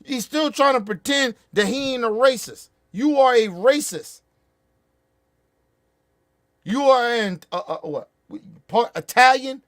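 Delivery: loud, high yelling at him; shouting insults. Real, not acted. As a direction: bellow every insult. Yelling insults at Chris Christie.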